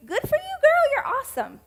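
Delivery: gushing cheer. Real, not acted. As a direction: hype her up like a best friend.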